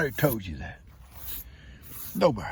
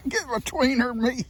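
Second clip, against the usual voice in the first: much higher, laughing goat voice; 13 semitones higher than usual. Acted. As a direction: speak for the goat, pitched way up.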